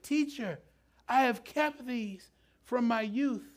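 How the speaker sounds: preacher mimicking a whiny rich young man. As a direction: whine that you've done it all.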